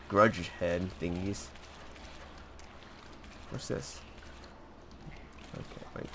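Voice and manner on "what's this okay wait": whispering. Real, not acted. Unvoiced exploring.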